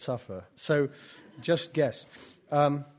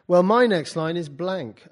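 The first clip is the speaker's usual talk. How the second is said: louder, higher acted retort; student's objection; 6 semitones higher, 11 dB louder, slower than usual. Poet voices student excusing an empty page, drawn-out objection. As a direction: stretch out the student's protest. Voicing a student's protest in story.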